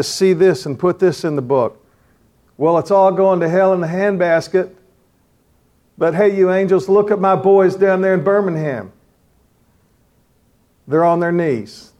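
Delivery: like God boasting to the angels about his men; voicing God. Imagined God speaking to angels.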